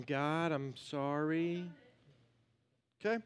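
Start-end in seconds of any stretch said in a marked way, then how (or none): 0.0-1.6 soft, slow, sheepish prayer; timid apology. Retold or imitated. Congregation praying timidly to God, soft and slow. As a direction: mumble a timid sorry. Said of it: "we're going".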